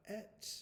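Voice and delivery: "Pet" split into p, then et; sounded out. Shown as a demonstration. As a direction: sound out "Pet" in two parts, with a gap. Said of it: "we can make this sound".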